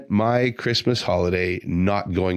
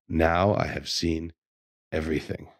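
weighty pause before the final word, getting softer; mock solemn disbelief; 3 semitones lower, 4 dB quieter than usual. Telling what he said to himself, mock solemn disbelief. Quoting own stunned reaction to video.

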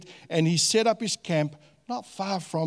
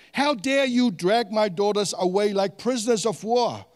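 "How dare you drag" punched at a higher pitch; emphatic reading; 4 semitones higher than usual. Acted. Laban accusing Jacob over his daughters, emphatic reading. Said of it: "gonna emphasize some of the words".

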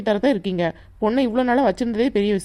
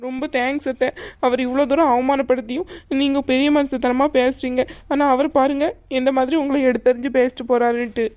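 higher-pitched, tearful gratitude; 3 semitones higher than usual. Acted. Girl thanking aunt despite father's insults, tearful. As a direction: thank her while still upset and crying. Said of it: "அழாத, தைரியமா இரு".

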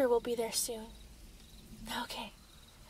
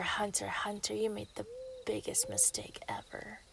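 a whispered, sing-song taunt; 5 dB quieter than usual. Acted. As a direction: tease him in a hush. Villain taunts hunter.

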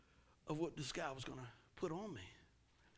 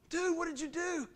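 higher, louder incredulous question; acted dismay; 10 semitones higher, 6 dB louder than usual. Customer to loader about the crushed truck, mock dismay. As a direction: demand it in mock alarm.

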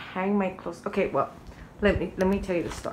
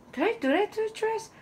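high-pitched, puzzled self-questioning; confused; 14 semitones higher, faster than usual. Retold or imitated. Daughter caught off guard about her dress, confused. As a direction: act out startled confusion, pitched way up. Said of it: "I was so confused".

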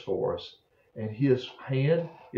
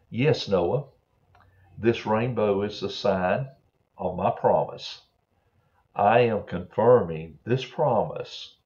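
put-on a gentle Bible story read aloud to kids; reading to children. Pastor reading the rainbow promise to children, gentle storytelling.

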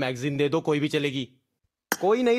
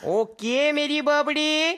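slow sing-song catchphrase; 5 semitones higher, slower than usual. Acted. Catchphrase repeated.

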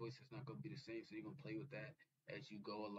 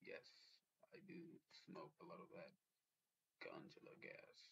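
whisper; 5 semitones lower, 12 dB quieter than usual. Real, not acted. Admitting smoking weed, hushed.

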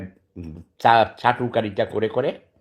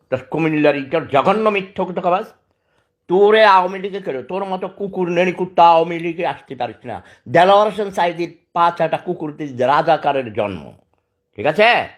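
enraged shouting; 5 semitones higher than usual. Real, not acted. Sick man rages at the Comilla YouTuber, shouting insults. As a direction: spit the insults out in a rage.

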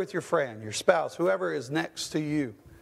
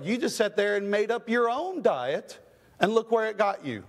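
higher, scolding like an impatient doctor; 6 semitones higher than usual. Retold or imitated. Doctor scolding a patient who ignored the menu, higher and scolding. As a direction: talk down to her like a doctor who knows best. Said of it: "That's how he talks to him".

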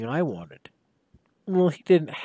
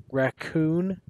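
puzzled question; 2 semitones higher, 5 dB quieter than usual. Acted. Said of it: "I said, pausing in my flight".

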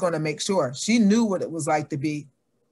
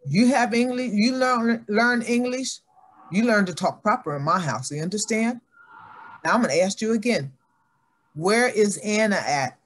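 a hint of an angry mother; stern scolding mother; 5 semitones higher than usual. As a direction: scold the child for her grammar. Mother scolds over grammar.

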